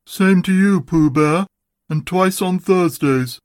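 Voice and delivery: a touch of sour gloom; gloomy. A narrator's reading. Eeyore returning Pooh's greeting, gloomy. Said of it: "said Eeyore gloomily".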